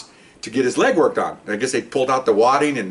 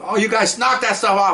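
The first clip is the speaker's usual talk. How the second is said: higher, dismissive sergeant's scold; mild mock scolding, raised pitch; 8 semitones higher than usual. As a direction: brush them off like a gruff boss.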